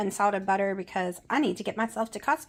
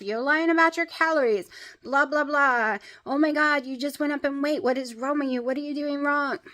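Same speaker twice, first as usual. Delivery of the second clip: mocking commenters; 4 semitones higher, 4 dB louder than usual. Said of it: "too many bad comments".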